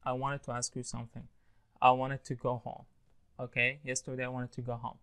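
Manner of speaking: "wanted to" linked as "wanned to"; casual dropped T. Shown as a demonstration. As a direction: model "wanted" with the T after N left out. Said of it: "بيقولوها دي بقى".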